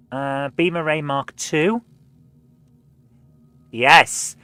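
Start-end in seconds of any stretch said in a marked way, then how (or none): 3.7-4.4 excited yes. Real, not acted. Gets a new ship weapon.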